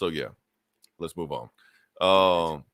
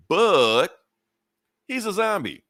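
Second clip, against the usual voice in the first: amused high punchline; 9 semitones higher, 3 dB louder, slower than usual. Real, not acted. Punchline of zombie twist.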